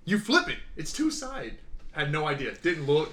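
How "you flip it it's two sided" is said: high, loud, incredulous correction; exasperated explaining. Retold or imitated. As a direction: spell out the obvious in disbelief. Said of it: "I'm like".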